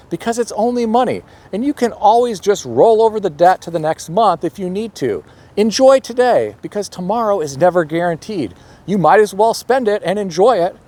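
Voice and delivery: mock a free spender's logic with light sarcasm; a little sarcastic. Podcaster mimicking carefree credit card spenders, a little sarcastic. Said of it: "I'm being a little sarcastic here".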